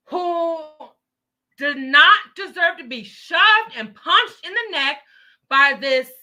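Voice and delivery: loud, indignant rant, slowing on key words. Real, not acted. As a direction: pound each word out in outrage. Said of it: "I'm screaming and ranting".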